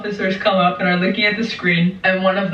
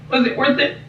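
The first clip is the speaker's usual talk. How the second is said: high-pitched, frantic telling-off; retold self-scolding; 6 semitones higher than usual. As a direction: scold yourself in a raised, mocking pitch. Retold panicked scolding of herself.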